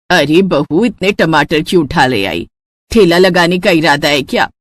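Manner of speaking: put-on tired elderly woman complaining at the table; grumbling mother-in-law. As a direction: grumble like a fed-up saas.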